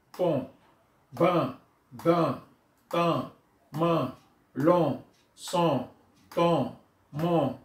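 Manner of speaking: syllables read out one at a time, slowly; reading syllables aloud. Shown as a demonstration. Teacher modelling the syllable reading for pupils. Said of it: "Donc, je lis".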